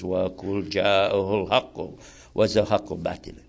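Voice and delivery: measured Arabic scriptural recitation; formal recited Arabic verse; Quran recitation. Real, not acted.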